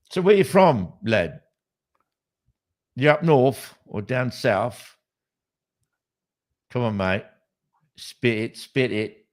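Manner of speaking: put-on a jokey, poor English accent; bad English accent. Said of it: "Shit English accent".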